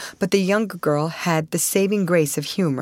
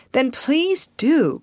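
eager cry; 9 semitones higher, slower than usual. Acted. Ruth, cold and nervous, begging Russ for coffee. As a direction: beg for it, pleading and eager. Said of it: "cried Ruth".

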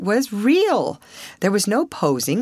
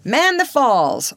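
slow, raised command, stress on the; captain orders his sailors, slow and raised; ordered; 7 semitones higher, 4 dB louder, slower than usual. A narrator's reading. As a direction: bark the order out slowly. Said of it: "ordered Captain Falcon".

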